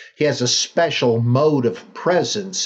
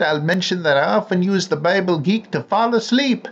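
letter read in a lightly hammed-up Finnish accent; a gentle, slightly silly Finnish accent held the whole way; mock Finnish accent; 2 semitones higher than usual. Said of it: "sorry about that speculative Finnish accent".

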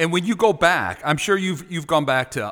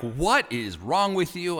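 slow, drawn-out mock disbelief; mock bewilderment; 3 semitones higher, 3 dB quieter, slower than usual. Imagined listeners questioning his new slang, mock bewilderment. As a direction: act out baffled listeners, slowly.

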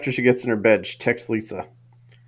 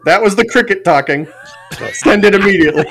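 higher, louder fake-alarm text; mock urgent warning; 7 semitones higher, 6 dB louder than usual. Dad texts Katie as the cricket, mock urgent.

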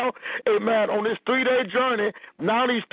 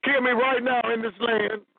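higher, pleading voice, as if close to tears; pleading Moses; 4 semitones higher than usual. Acted. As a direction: beg God like a worn-out leader at his limit. Preacher voices Moses pleading with God.

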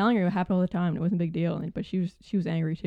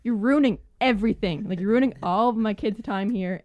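retold angry customer; 2 semitones higher, 4 dB louder than usual. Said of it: "she kept interrupting me and being like".

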